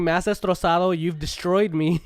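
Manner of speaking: half-hearted dramatic yelling; mock yell. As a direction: imitate his wounded yell with amusement. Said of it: "he's yelling".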